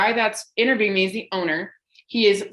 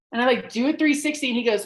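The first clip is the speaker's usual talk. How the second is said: plain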